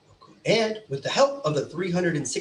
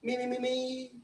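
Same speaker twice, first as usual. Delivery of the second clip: shouting; 9 semitones higher, 4 dB quieter than usual. Acted. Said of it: "Let's do it one more time".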